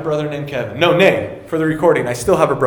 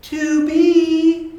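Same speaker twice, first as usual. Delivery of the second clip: high, loud mocking call, drawn out; brother's taunt; 10 semitones higher, 5 dB louder than usual. Older brother needling his wound-up sibling, high mocking taunt. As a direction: tease in a high put-on voice. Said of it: "This is what he would do".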